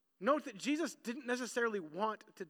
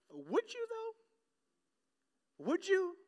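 pointed challenge; 8 semitones higher, much slower than usual. Real, not acted. Challenging the congregation.

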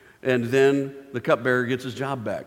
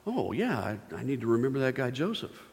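aha moment; 4 dB quieter than usual. Acted. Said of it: "the aha moment".

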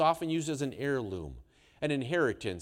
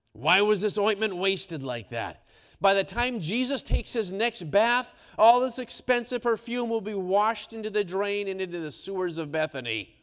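higher, louder indignant grumble; scolding disciples; 6 semitones higher, 6 dB louder than usual. Acted. Disciples grumbling to each other at table, indignant and loud. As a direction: play the disciples grumbling about waste.

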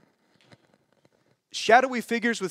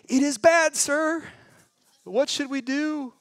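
higher, slower, anxious plea; panicked servant; 8 semitones higher, slower than usual. Acted. Frightened servant asks his master, higher and slow. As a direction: plead with rising alarm. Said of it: "says it like this".

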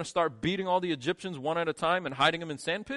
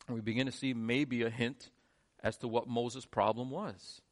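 normal talking voice

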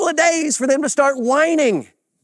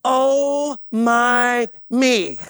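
mock exasperation; much slower than usual. Jokingly acts out exasperated God.

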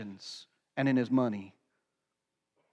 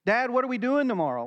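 put-on quick, higher kid's question; imitating toddler; 5 semitones higher, faster than usual. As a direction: toss it off fast like an eager toddler. Toddler voiced in story.

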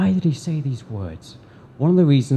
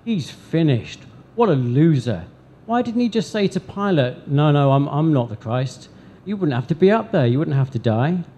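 higher, mocking jeer at the cross; scornful taunting, pitched up; 3 semitones higher, 3 dB louder than usual. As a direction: sneer like a soldier taunting. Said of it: "mocked and jeered and said".

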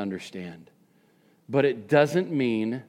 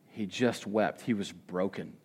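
hushed; 4 semitones lower, 6 dB quieter than usual. Real, not acted. Hushed reflection on grief.

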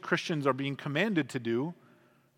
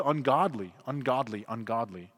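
Ungodly, ungodly, ungodly each falling, growing softer and lower; fading repetition; 5 semitones lower, 3 dB quieter than usual. Shown as a demonstration. Preacher to congregation, repeating the word, fading. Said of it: "how often that word came up".

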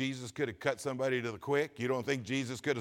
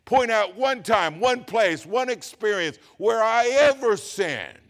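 louder, higher pulpit challenge; forceful challenge; 5 semitones higher, 6 dB louder than usual. Acted. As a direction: throw down the challenge, building to the end. Acts out Jesus challenging accusers.

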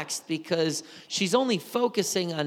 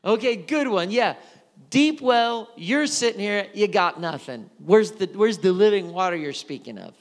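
louder, higher mocking retort to a stranger; mocking sarcasm; 4 semitones higher, 5 dB louder than usual. Samaritan woman mocking the stranger, sarcastic and loud. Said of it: "a little bit of sarcasm".

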